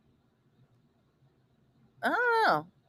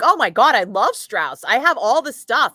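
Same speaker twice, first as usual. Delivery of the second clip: excited, louder and higher; gushing fan; 4 semitones higher, 5 dB louder than usual. Retold or imitated. Retelling meeting the dairy rep, gushing. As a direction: gush like a superfan. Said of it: "And I was like".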